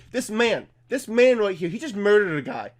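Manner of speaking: hint of a sensational TV reporter; Fox News. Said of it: "That's like Fox News be like".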